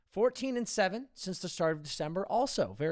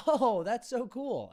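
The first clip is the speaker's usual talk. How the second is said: fake politeness; 5 semitones higher, slower than usual. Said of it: "they always go like this".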